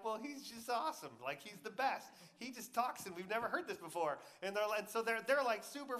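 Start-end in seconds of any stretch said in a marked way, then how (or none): 0.0-4.2 higher-pitched, enthusiastic retelling; awed gushing. Retold or imitated. Temple guards explaining themselves to Pharisees, gushing. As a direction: gush like an impressed fan.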